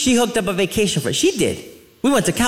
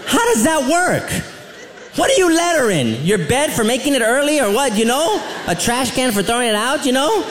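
mock indignant; 4 semitones higher than usual. Mocking homeschool letters.

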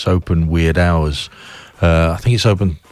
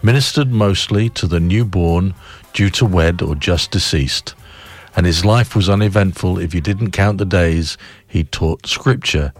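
poem reading. Acted. Reads a poem on air.

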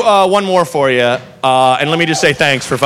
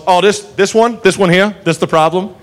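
lightly voiced Southern cop, checking; repeated little rising questions, unbothered; cop's casual question; 3 semitones higher than usual. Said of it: "And finally goes".

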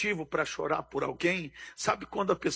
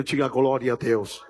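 preacher's call; 7 semitones lower than usual. Real, not acted. Preacher asks the congregation for a glory, deep call. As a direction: ask the church to answer, deep and firm.

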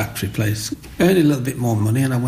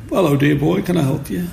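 shopkeeper voice; 6 semitones higher than usual. Retold or imitated.

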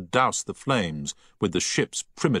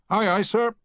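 high startled reply; 4 dB louder than usual. A narrator's reading. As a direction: caught off guard, yelp it. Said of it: "said a startled chief engineer".

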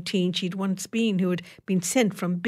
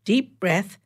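brisk; 2 semitones higher, 3 dB louder than usual. Acted. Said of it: "she instructed briskly".

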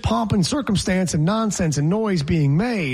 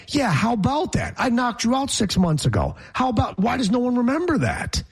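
gloating mock; 6 semitones higher than usual. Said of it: "felt like".

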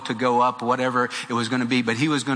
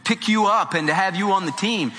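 protesting bandmates; 5 semitones higher than usual. Retold or imitated. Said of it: "they said".

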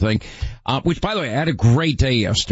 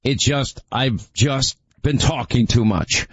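hoarse voice; slower than usual. Real, not acted. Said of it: "it sounds worse than I don't feel".

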